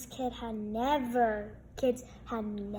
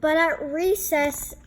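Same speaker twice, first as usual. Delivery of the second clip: louder, building suspense; dramatic narration; 3 semitones higher, 7 dB louder than usual. A narrator's reading. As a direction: punch the turn in the story.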